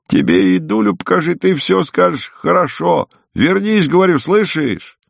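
high-pitched exasperated scolding; cross cry. A narrator's reading. Woman ordering the unresponsive guest back, cross cry. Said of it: "с сердцем крикнула баба".

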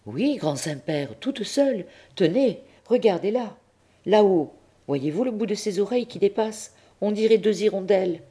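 high, hammed-up lament of a sly boy; fake wailing. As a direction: pretend to weep to the pope. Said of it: "faisant mine de pleurer". (Tistet fait mine de pleurer devant le pape, voix aiguë et geignarde)

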